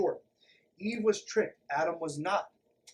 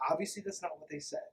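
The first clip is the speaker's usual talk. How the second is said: usual speaking voice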